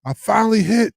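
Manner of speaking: high, fast excited squeal; thrilled squeal at the crowd. Retold or imitated. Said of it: "I was like".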